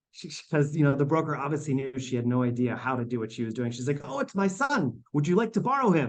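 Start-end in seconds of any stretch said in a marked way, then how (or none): 4.1-6.1 put-on pitched-up Romanian accent. Retelling what Montalenti told her broker about her son, imitating Montalenti's Romanian accent. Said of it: "In her Romanian accent".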